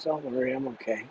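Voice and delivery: soft, faint reassurance; barely voiced, gently reassuring; weak and quiet. Weak dying father reassuring son.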